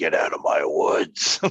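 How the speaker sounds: slow, drawn-out horror-movie voice. Imagining a voice heard on a recording in the woods: Amityville voice. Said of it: "you hear that Amityville voice saying".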